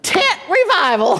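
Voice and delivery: laughing. Real, not acted. Laughing at tent revival roots.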